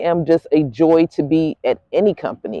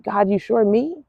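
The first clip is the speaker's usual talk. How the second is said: incredulous question; 7 semitones higher, slower than usual. Retold or imitated. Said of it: "You not be walking like".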